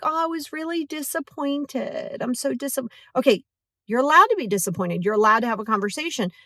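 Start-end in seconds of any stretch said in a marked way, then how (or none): 0.0-2.9 mock disappointment. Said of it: "use it and be like".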